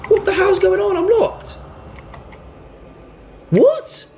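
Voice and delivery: high panicky cries to be let out; trapped and frantic, voice shooting up; real panic. Real, not acted. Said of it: "I'm panicking now".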